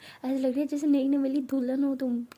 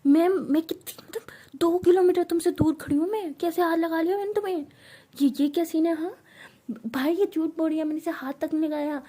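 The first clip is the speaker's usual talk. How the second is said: indignant mother; 6 semitones higher, 6 dB louder than usual. Acted. Mother indignant at false accusation.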